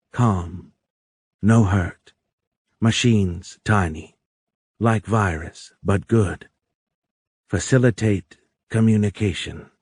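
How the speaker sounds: lightly voiced alien, slow broken phrases; halting alien. A narrator's reading. Alien holds up a hand to calm Tony, halting. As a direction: reassure in separate, newly learned words.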